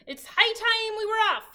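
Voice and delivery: loud, high captain's call; pirate announcement. A narrator's reading. Captain announces to his crew it's time to sail. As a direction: announce it to the whole ship. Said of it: "he announced".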